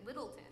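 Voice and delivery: Littleton as one word, weak "tun" ending; locals' pronunciation. Shown as a demonstration. Demonstrating how locals say it, Littleton with a weak ending. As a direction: reduce the end of Littleton to "tun". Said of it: "They say it just like that".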